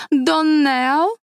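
Доннелл said high, leaning on its second syllable; stress on last syllable. A narrator's reading. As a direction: push the end of Доннелл. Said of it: "с ударением на последнем слоге".

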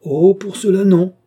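éclat haut et fort; vive protestation. A narrator's reading. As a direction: rejeter d'un coup, avec force. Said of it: "répondit vivement l'enfant". (l'enfant proteste vivement, fort)

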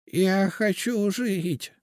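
high, slow pleading. A narrator's reading. Witch begs the seer to let her live. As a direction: beg to live. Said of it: "молила Генриетта Абелардовна".

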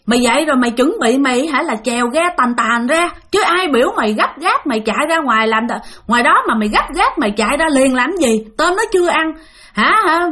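imitating the ghosts' mild scolding; lightly voiced spirits berating the man; mock ghost cursing. Ghosts pin the father down and curse him, mild mock scolding. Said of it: "nó vừa đè nó vừa chửi".

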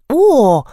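loud moaning "O". A narrator's reading. Krause moans as the elephant grabs the pipe. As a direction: groan out loud in dismay. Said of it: "простонала Краузе".

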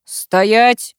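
shouting. Acted. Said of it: "вдруг крикнул".

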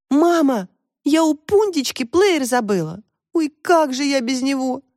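high-pitched mild wail; dismayed cry, lightly acted; woeful exclamation. A narrator's reading. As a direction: lament it like an upset daughter. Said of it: "горестно воскликнула Таська".

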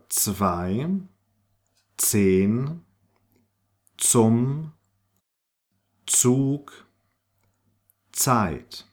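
initial Z in zwei, zehn, zum as sharp ts; spaced-out model words, Zug and Zeit starting ts; German Z as ts. Shown as a demonstration. Teacher gives examples of German Z, each begun with ts. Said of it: "is pronounced like a Z".

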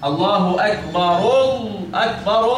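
الله أكبر slowed, hamza dropped in linking; slow demo. Shown as a demonstration. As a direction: break الله أكبر apart slowly. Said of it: "نقول إيه؟". (نطق بطيء موضح)

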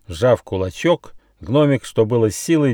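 ordinary delivery, nothing marked

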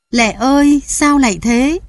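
high, anguished wail; wailing lament. A narrator's reading. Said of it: "Ông kêu gào thảm thiết". (kêu gào thảm thiết)

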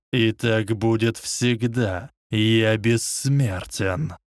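slow, cold dark lord; lightly voiced menacing villain. Voldemort speaks.

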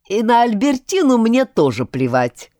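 loud, high snarling outburst. Acted. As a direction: snap it out in a rage. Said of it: "вызверился Альберт".

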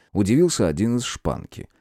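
ordinary delivery

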